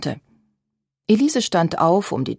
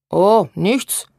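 innocent tone; 3 dB louder than usual. A narrator's reading. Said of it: "meinte Babette in harmlosem Ton".

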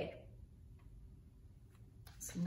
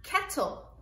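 modelled word; 8 semitones higher than usual. Shown as a demonstration. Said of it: "some words that have L E at the end".

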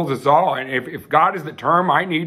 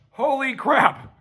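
high and very slow, drawn out in wonder; awed exclamation; 10 semitones higher, much slower than usual. Real, not acted. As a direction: stretch it out, stunned by the moment. Overwhelmed mid-sermon exclamation.

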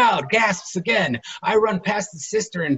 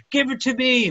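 pleading; 7 semitones higher, 3 dB louder than usual. Acted.

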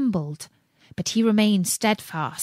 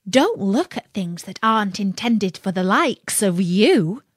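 sneering imp voice, mocking warning; sly, scornful little imp; giggly sneering imp. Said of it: "said the imp".

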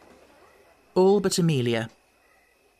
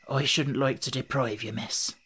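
softer, hoarse and reluctant; a hoarse, withdrawn murmur; 4 dB quieter than usual. Acted. Gypsy man backing away from the baby, softer hoarse voice. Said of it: "he said hoarsely".

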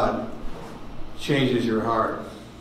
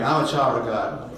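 leading a response. Shown as a demonstration. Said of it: "Repeat after me".

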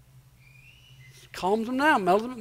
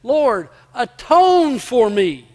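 slow, louder imploring cry; 2 semitones higher, 5 dB louder, much slower than usual. Retold or imitated. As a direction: call out slowly to God, stretching the plea. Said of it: "he was crying out".

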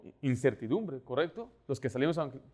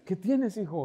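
tender; 5 semitones higher than usual. Retold or imitated. Father comforting crying son.

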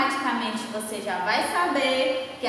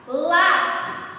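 Lápis said high and loud on lá; stress on LÁ; 4 semitones higher, 4 dB louder than usual. Shown as a demonstration. Teacher showing pupils the strong syllable, lá stressed. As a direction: hit the lá in Lápis. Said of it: "uma sílaba que ela sai com mais força".

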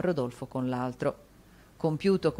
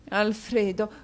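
1 sobbing; 6 semitones higher, 3 dB louder, slower than usual. A narrator's reading.

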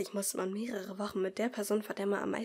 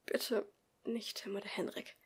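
whispered, much softer plea; murmured plea; 7 dB quieter than usual. Acted. Pupil silently begs not to be paired with bullies, whispered. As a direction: beg under your breath. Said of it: "murmelte ich in Gedanken".

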